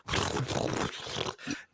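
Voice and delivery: unvoiced sputtering mouth noise; imitated bowel noise. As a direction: imitate a wet splattering sound. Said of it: "thought it was my dad going".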